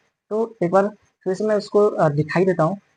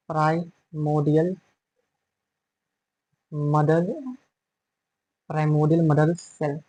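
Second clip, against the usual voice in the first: slow dictation; 3 semitones lower, 5 dB quieter, slower than usual. Shown as a demonstration. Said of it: "यहाँ पे लिख देता हूँ".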